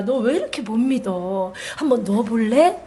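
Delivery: lightly voiced tender Jesus; gentle invitation. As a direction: invite him kindly to touch. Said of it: "제가 만난 주님은 그게 아니라".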